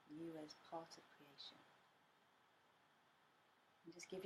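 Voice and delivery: gentle meditation guide with long pauses; guided meditation. Acted. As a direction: lead them inward unhurriedly, leaving space between phrases.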